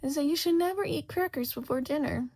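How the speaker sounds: high, loud pronouncement; loud moral for the court; loud declaration. A narrator's reading. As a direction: declare it for all to hear. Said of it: "she says much louder".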